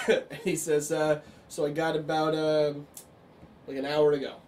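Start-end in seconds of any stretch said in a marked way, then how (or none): 1.5-4.3 lightly voiced Brooklyn gym guy; Brooklyn accent. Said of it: "like, Brooklyn-y accent".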